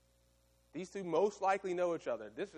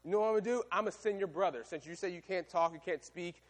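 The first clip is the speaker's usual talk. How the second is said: mildly irritated God; 3 semitones higher than usual. Acted. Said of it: "He gets angry with Moses".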